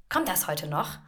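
clipped, pointed question with a rising end; passive-aggressive. Retold or imitated. Colleague's email question read as passive-aggressive. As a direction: read the colleague's mail as a veiled jab. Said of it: "ein ganz passiv-aggressiver Ton".

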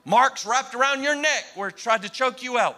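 imitated thick Arkansas accent; old preacher's Arkansas accent, imitated; deep Arkansas accent. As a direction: retell it in an Arkansas country accent. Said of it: "this deep Arkansas thick accent".

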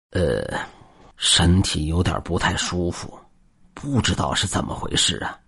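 in discomfort. Acted. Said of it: "表情难受地说道".

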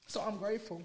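softly choked up with tears; grateful, holding back real tears; tearful. Real, not acted. Talking about adoptive parents, tearful and soft. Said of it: "don't mistake these tears".

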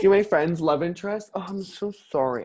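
high, put-on apologetic gush; mock gushing. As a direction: mimic a fake-sorry friend. Listener mimics the gushing friend.

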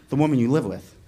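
low, measured delivery; cool older brother, unhurried; retold calm. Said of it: "Chris is real calm".

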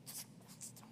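breathless whispered "just, just"; hushed whisper. Retold or imitated. Chrissy shushing her friend in church, whispered. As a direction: hush her without a sound. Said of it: "Chrissy's like".

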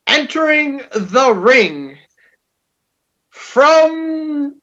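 slow, stretched announcer intro; ring announcer. Acted. Introducing the cohost's segment as a ring announcer. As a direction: draw out the name like a ring announcer.

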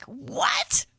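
breathless disbelieving whisper; a hushed, stunned what. Retold or imitated. Close game finish, whispering what in disbelief. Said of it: "that was like".

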